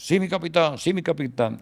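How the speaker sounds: high, light imitation of a compliant subordinate; acted-out dutiful yes in Spanish; obedient reply. Acting out sergeant's obedient reply.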